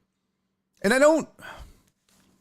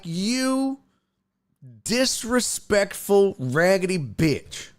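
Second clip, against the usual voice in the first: fuming; 3 semitones higher, much slower than usual. Retold or imitated. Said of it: "I'm fuming".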